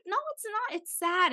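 high, mock-tearful protest; retold crying. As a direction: whine back, imitating a crying objection. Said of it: "I just kept crying".

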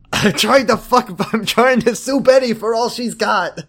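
high-pitched joke holler with laughs; mock yelled complaint. Co-host topping the riff on Leo's complaint, high mock hollering.

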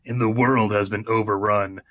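dramatic movie trailer narration; booming trailer voice-over; announcer voice. Shown as a demonstration. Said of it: "Let me get my announcer voice".

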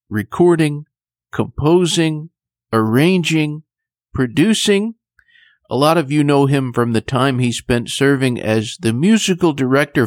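measured, scripted announcer delivery; radio host introduction. Acted. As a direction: present the guest like a radio host, phrase by phrase. Host's formal scripted show introduction.

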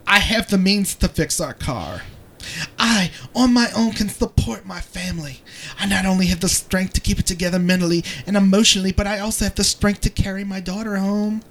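a light Portuguese accent on a dramatic reading; a dramatic reading in a Portuguese accent, ending in a whisper. Shown as a demonstration. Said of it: "one paragraph in that voice".

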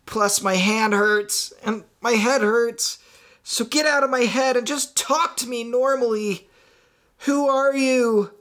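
high, exasperated rant at normal volume; angry yell. Acted. Trapped Marty blaming the mysterious voice, angry yell. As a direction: demand answers, pitch climbing to the end. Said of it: "Marty yelled aloud, his anger echoing".

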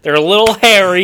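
put-on southern accent. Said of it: "stop with this fucking accent".

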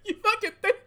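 high, loud mocking jab; sarcastic disbelief. Real, not acted. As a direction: throw it back with scorn. Mocking the headline.

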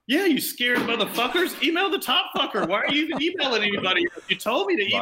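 high, fast scornful retort; mock taunting. Taunting scared colleagues, retold.

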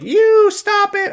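put-on very high, slow baby squeak. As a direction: pipe it like a tiny toddler. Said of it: "Rose is like".

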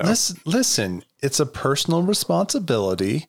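lightly hushed, calming politician voice; a hint of a soothing official speaking; library voice. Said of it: "I like your library voice".

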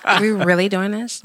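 put-on exasperated disbelief; Rebecca voice. Shown as a demonstration. Showing co-hosts her work voice, put-on Rebecca voice. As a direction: play at being over it, in a work persona. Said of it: "I throw on my Rebecca voice".

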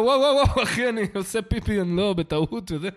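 hands up, explaining yourself in a panic; startled protest. Retold or imitated. Drunk man startled by an armed guard, laughing nervous protest. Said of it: "אמרתי לו".

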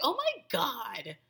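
exaggerated impression of a delighted friend; imitating amazed friend. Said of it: "And she'll be like".

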